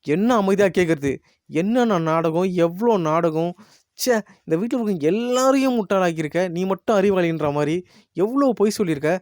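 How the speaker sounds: retold angry yelling. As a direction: act out an indignant outburst, not at full volume. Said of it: "முத்து பயங்கரமா கத்துறாரு". (கோவமா கத்துற மாதிரி நடிச்சு)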